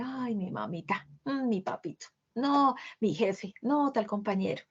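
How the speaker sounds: a soft, slow, whiny lament; complaining victim. Retold or imitated. Teacher imitating a complainer whining softly and slowly. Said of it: "se queja todo el tiempo".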